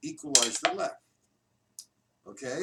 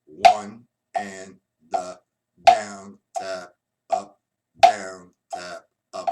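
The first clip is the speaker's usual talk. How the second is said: counting out the accents; 4 semitones lower, 10 dB louder, much slower than usual. Shown as a demonstration. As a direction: call out each stroke, punching the downs. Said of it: "And here we go".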